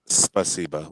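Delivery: spasiba starting with a clear S; initial S sounded. Shown as a demonstration. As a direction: say spasiba with "sp" at the front. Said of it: "with a S".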